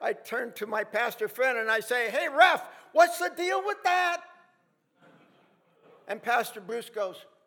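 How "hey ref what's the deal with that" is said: very loud, very high yelling shout. Retelling calling out loudly to the referee after a ball was moved back: retelling a loud shout. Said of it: "And so in a loud voice".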